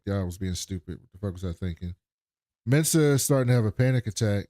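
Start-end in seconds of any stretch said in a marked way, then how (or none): 0.0-1.9 self-reproach. Retold or imitated. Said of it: "Murderbot's beating himself up".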